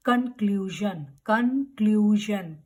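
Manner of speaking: "कंक्लूजन" as kun-KLOO-zhun; weak "kun" opening on "कंक्लूजन"; correct conclusion. Shown as a demonstration. Teacher modelling the word, correct pronunciation. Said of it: "we will say conclusion".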